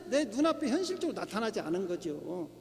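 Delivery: normal talking voice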